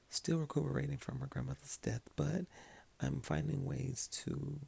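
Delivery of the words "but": usual speaking voice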